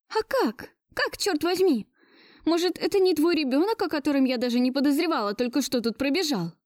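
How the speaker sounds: high, mildly anguished questioning; pained rasp. A narrator's reading. Woman confronting Gleb about his hidden son, lightly pained. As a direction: start very high, pained, easing down. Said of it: "Задыхаясь от боли, прохрипела я".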